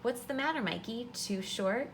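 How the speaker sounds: taunting. Acted. Tall boy Mark mocking Michael on the court, teasing. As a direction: jeer at the short kid.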